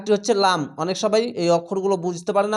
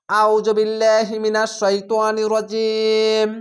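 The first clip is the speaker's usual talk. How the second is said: slow, drawn-out tajweed recitation on a level note; Quran recitation; much slower than usual. Shown as a demonstration. Teacher opening a Quran class with the opening formula, slow recitation. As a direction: recite reverently, stretching the long vowels.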